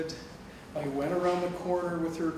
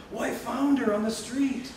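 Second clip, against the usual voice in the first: laughing; 8 semitones higher, 5 dB louder than usual. Retold or imitated. Telling foster mother the news.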